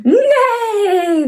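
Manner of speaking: high whinnying neigh; whinny like a horse. Shown as a demonstration. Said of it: "They go like that".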